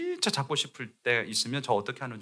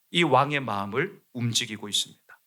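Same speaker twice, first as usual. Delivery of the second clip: ordinary delivery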